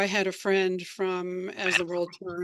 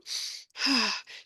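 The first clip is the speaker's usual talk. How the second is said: demonstration sigh; 3 semitones higher than usual. Shown as a demonstration. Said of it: "articulate some sort of sound".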